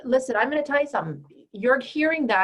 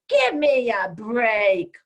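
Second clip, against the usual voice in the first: slow, louder scoffing; scornful brush-off; 6 dB louder, much slower than usual. Retold or imitated. Coach imitating a rude man dismissing her, slow and scornful. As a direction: drag out the contempt. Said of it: "allow a man to go".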